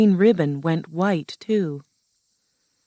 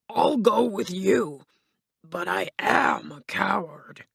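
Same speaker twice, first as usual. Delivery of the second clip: reluctant Cowardly Lion; 3 semitones higher than usual. Acted. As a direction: offer help as a sheepish lion.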